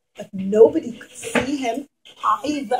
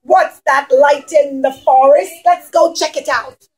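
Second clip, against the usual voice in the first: mild pirate call; 5 dB louder than usual. Acted. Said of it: "they would have said".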